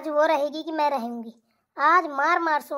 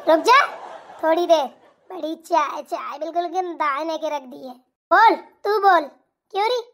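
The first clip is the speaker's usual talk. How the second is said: scolding mother-in-law. Acted. Mother-in-law berates her son for pressing his wife's feet. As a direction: tear into her in bursts like a fierce mother-in-law.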